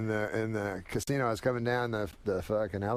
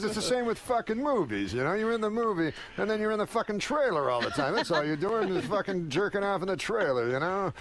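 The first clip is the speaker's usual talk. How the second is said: ranting; 6 semitones higher than usual. Retold or imitated. Rodney ranting about show business.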